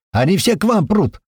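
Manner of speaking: excited alert; urgent warning. Acted. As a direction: warn them fast and urgent. Warning over radio.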